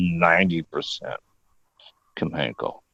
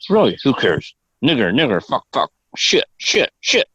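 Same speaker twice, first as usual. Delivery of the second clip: blurted tics, the last swears pitched up and off his usual voice; imitating Tourette tics. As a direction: rattle off the tic words like the guy at dinner. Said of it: "And he's like".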